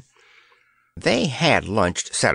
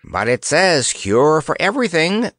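insisting; 5 semitones higher than usual. Acted. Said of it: "insisted Bill".

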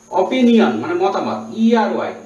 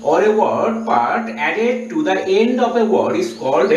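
slow dictation; much slower than usual. Shown as a demonstration. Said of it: "দেখো".

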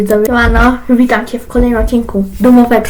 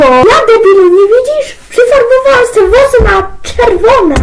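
high, loud put-on mum voice; mum's voice, pitched up and loud; mother scolding; 9 semitones higher, 5 dB louder than usual. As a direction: play the nagging mother showing off her hair. Mother character scolds son.

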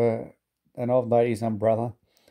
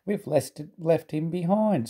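higher, slow mock sob; mock sobbing; 6 semitones higher than usual. A narrator's reading. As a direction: sob it like guilty coaches. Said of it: "sobbed Annie and Clarabel together".

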